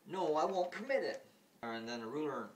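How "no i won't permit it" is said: higher and louder, firm refusal; protective mother. Retold or imitated. Mother refuses the challenge, loud and high. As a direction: refuse outright. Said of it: "Marine goes".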